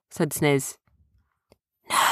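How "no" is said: hushed secret aside; whisper. A narrator's reading. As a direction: whisper it so the others miss it. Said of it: "whispered David".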